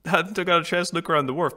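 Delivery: mock rambling character. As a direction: rattle it off in playful mockery. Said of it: "She's still going".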